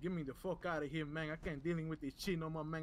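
lightly put-on Latino accent; mild hammed-up Latino accent. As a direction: talk it through a Spanish-flavored accent. Held accented character.

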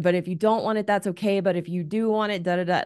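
mock indecisive wife voice; crazy-making back and forth. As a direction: imitate yourself waffling over what he wants. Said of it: "I did the crazy making thing".

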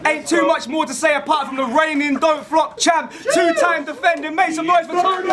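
shouting the champ's intro; hype announcement. Real, not acted. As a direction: build it up for the champion. Host introduces champion to crowd.

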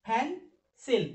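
"ফ্যান সেল" in two distinct beats; teacher counting out the syllables of "ফ্যান সেল"; broken into syllables. Shown as a demonstration. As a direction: separate "ফ্যান" from "সেল" with a short pause. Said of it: "দুই syllable".

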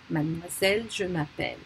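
Mademoiselle and m'appelle with silent E, sounded L; final consonant pronounced. Shown as a demonstration. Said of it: "makes us pronounce a consonant".

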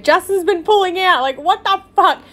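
high-pitched, amused disbelief; crying with laughter. Real, not acted. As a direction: repeat it incredulously, cracking up. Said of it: "I'm crying".

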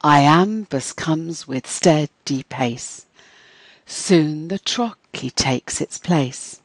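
slow verse recital, beating out each line's metre; measured poem reading that exaggerates every stressed beat; demonstrated metrical rhythms. Shown as a demonstration. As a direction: stress "trochee" on its first syllable, "dactyl" in threes. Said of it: "I'll read it out loud so you can see how this works".

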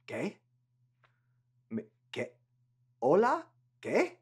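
confused questions. Pretend. Confused workers can't understand.

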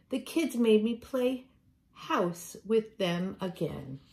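a put-upon grumble; complaining cat. Acted.

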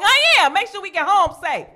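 high, loud squeaky mock protest; mock high squeak. To boyfriend who says she ain't sleep, a high squeaky protest. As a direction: squeak it out, pretending to be awake. Acting out drowsy talk to boyfriend.

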